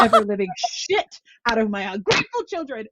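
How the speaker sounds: a hint of the frantic mother, laughing through it; exasperated Irish mother. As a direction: finish the mock tirade half-laughing. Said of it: "and she'd go".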